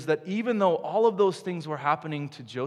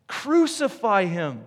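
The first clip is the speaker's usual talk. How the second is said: louder, slow, hammered repeat of the chant; angry crowd shout; 4 semitones higher, 5 dB louder, slower than usual. Retold or imitated. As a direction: let the mob's rage build on the second call. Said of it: "they shouted back with anger".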